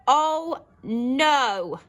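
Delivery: high, loud shocked cry; shocked exclamation. Shown as a demonstration. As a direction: gasp it out in shock. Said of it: "exclamation mark".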